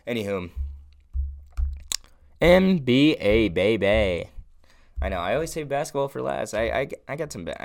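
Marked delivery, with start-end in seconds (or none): 2.4-4.3 slow, loud hype call; hype announcer. Acted. Hyping the basketball segment.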